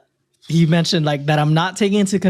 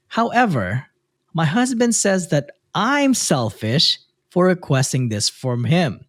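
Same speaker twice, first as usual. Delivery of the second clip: measured read-aloud with lifted phrase starts; reading a post aloud; 2 semitones higher than usual. A narrator's reading. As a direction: read out the letter clearly, pausing between phrases. Reads a listener's post aloud.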